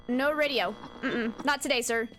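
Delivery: ordinary delivery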